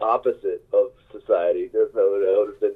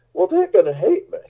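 high laughing retold line; laughing mock quote; 10 semitones higher than usual. Musician laughing at his own dread of the show. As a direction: laugh through the imagined reply.

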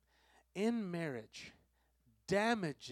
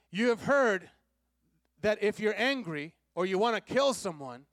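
loud, ringing proclamation of Jesus' words; a preacher thundering as Jesus; forceful Jesus voice; 4 semitones higher, 6 dB louder than usual. Acted. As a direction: declare each "But I tell you" with full authority.

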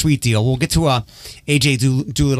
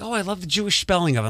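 gushing retold admirer; 5 semitones higher, 5 dB quieter, faster than usual. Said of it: "And they're like".

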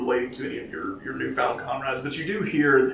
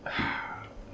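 weary sigh; 11 dB quieter than usual. Acted. Barkeep weary of drunk regular.

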